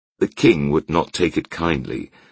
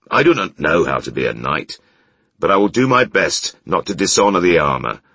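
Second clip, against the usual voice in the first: stern blacksmith; 3 semitones higher, 4 dB louder than usual. Acted. Claw speaks hotly.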